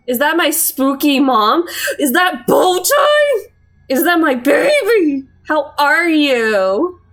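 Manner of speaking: high, loud, cooing over a pet. Real, not acted. Greeting a spooky fish fondly.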